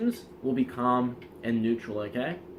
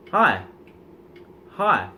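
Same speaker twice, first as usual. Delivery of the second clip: louder greeting; 7 dB louder than usual. Shown as a demonstration. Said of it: "Rising the frequency, the, the volume".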